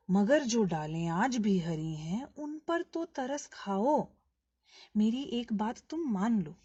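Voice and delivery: emphatic verse reading with drawn-out phrases; poem recitation. Acted. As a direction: recite it as an earnest appeal in verse. Recites closing lines of poem. (भावपूर्ण कविता पाठ)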